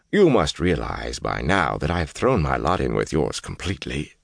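uneasy servant pleading his loyalty; lightly voiced Asmodean. Threatened servant answers Rand, uneasy and placating. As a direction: placate your lord, hesitant at first.

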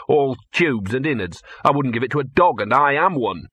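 cynical mongrel grumbling; a disgusted little dog sneering at fancy food; grumpy street dog. Acted. Gaspode grumbles to Victor about the dog food, sour.

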